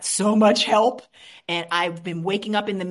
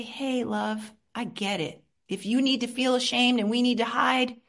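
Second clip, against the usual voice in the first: tender reassurance. Shown as a demonstration. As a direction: reassure a hiding child. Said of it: "I just say".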